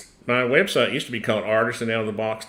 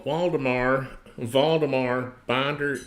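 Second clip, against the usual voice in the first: mock German accent; 4 semitones higher, slower than usual. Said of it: "My Tennessee German accent".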